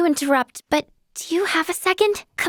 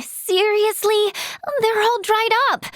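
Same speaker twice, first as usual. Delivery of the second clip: exasperated dismay; 6 semitones higher than usual. Acted. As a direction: whine at the bad find. Finds the needed plants dried up.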